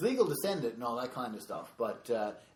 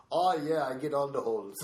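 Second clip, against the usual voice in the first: loud, higher bragging voice; boastful friend impression; 6 semitones higher, 9 dB louder than usual. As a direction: brag it like a cocky buddy. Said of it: "he's like".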